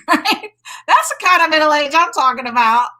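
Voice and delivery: fast and bright through a laugh. Real, not acted. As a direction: laugh as you speak. Laughing about J Lo middle age.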